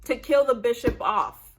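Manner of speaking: mad viewer yelling at the show; angry complaint. Retold or imitated. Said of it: "I was so mad".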